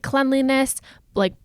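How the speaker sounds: ordinary delivery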